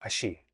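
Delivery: "ashi" with a soft sh sound; "ashi", the y turned into a hushed sh; Argentine pronunciation. Shown as a demonstration. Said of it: "pronounce it like ahí instead of".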